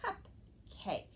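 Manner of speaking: "cupcake" as cup, pause, high cake; teacher modelling "cupcake" part by part; syllable blending demo. Shown as a demonstration. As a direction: say "cupcake" in two separated, crisp syllables. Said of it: "two syllables and made a new word".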